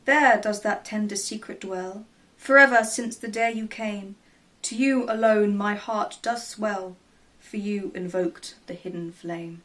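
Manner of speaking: measured recital of a love poem; poem reading. Acted. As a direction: read the verse with a gentle lilt. Reads a poem aloud.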